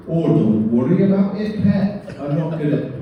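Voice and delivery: put-on friendly Northern English accent, lightly done; general Northern accent. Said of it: "that's my general purpose Northern accent".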